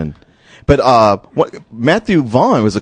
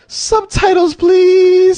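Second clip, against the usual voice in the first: mock plea; much slower than usual. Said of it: "I was like".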